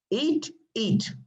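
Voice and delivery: mock insisting host. Shown as a demonstration. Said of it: "Second eat is what? Tabi'".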